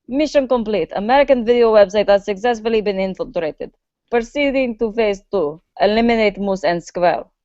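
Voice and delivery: light fake Russian accent, clipped and official. Russian agent reporting his mission in a light fake Russian accent. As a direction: report in like a hammed-up Russian spy. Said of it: "Was that an okay Russian accent?".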